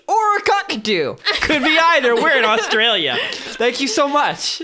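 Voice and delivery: laughing. Real, not acted. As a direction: read it while cracking up. Reading slang entries, giggling.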